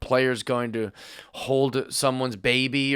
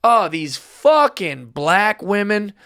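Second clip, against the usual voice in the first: slow, higher mock exasperation; demonstrated slur-like outburst; 4 semitones higher, slower than usual. Shown as a demonstration. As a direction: stretch out a pretend contemptuous complaint. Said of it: "Do you see how that sounds".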